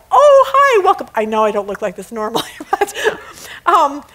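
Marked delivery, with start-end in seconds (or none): 0.1-1.1 high, loud startled hello; flustered greeting. Retold or imitated. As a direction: greet her, caught off guard. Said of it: "I was like".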